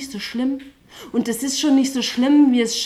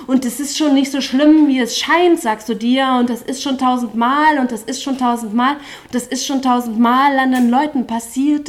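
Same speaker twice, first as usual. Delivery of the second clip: building chorus climax; 7 dB louder than usual. Acted.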